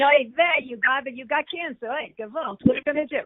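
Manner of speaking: lightly voiced Yiddish bubby; a hint of a kvetching Jewish grandmother. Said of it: "I kind of go into my bubby ... grandmother routine".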